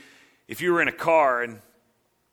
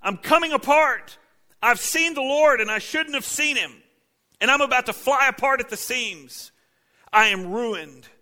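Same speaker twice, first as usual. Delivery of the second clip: much higher, loud anguished crying out; terrified wail; 10 semitones higher, 5 dB louder than usual. Acted. Isaiah crying out in the Lord's presence, terrified wail. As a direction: wail in terror before God. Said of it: "all he can cry is".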